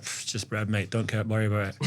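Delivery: imitating a shrugged-off answer, a touch subdued; nonchalant. Baker asked about his famous bread, imitated as nonchalant. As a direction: play down the question like an unbothered baker. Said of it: "the most nonchalant person in the world".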